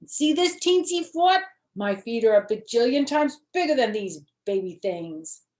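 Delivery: put-on high, loud, insistent little girl protesting; a kindergartner stamping her foot in words; small girl loudly insisting to her mother. Junie B shows Ollie's foot.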